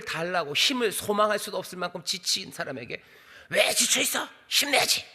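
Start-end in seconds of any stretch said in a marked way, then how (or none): 3.5-5.0 pushy pep talk. Retold or imitated. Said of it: "라고 말하는 것 같아요".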